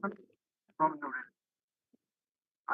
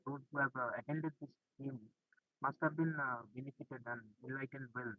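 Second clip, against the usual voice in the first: muffled voice, fading away; talking through a muffled mic. Real, not acted. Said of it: "your voice is very muffled".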